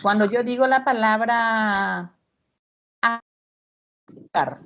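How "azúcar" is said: "azúcar" stretched very slowly, syllable by syllable; slow teaching demo of "azúcar"; drawn-out stress demo. Shown as a demonstration. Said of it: "¿dónde cargo la voz?".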